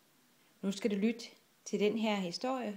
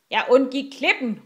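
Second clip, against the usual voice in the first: high, loud captain's cry; shout; 4 semitones higher, 8 dB louder than usual. A narrator's reading. Rasmus has dodged the rock, shouting. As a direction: call it out to the crew. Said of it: "råbte Rasmus".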